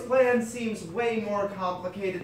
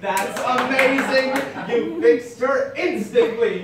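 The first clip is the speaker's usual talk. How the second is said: mock praise; 6 semitones higher, 9 dB louder, slower than usual. Real, not acted. Sarcastic teasing, loud and slow.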